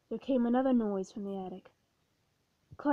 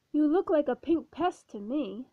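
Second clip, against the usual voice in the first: snapping; 3 semitones higher, 3 dB louder than usual. Acted. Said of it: "the ghost snapped".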